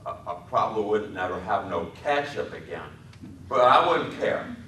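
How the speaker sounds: put-on a big child threatening to run off, hurt; sadly. A narrator's reading. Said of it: "then continued sadly".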